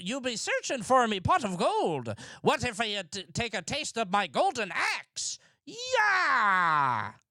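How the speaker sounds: leprechaun voice with long drawn-out "yeah". Quoting what a leprechaun with an axe says: imitating a leprechaun. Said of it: "all he says is, like, he'll just say".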